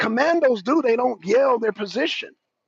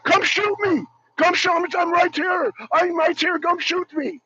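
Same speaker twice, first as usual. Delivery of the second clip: higher, teasing come-get-me call; mock taunt; 5 semitones higher than usual. Mocking fighters as if calling out come shoot me, playful taunt. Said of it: "I'm looking at it as".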